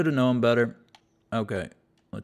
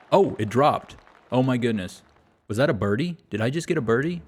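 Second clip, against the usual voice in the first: surprised excitement; 3 semitones higher, 5 dB louder than usual. Real, not acted. Surprise birdie after bad hole.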